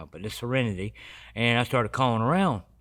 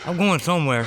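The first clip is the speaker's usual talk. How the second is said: higher, louder laughing exclaim; laughing disbelief; 7 semitones higher, 6 dB louder than usual. Real, not acted. Telling friends he was hauled off, laughing.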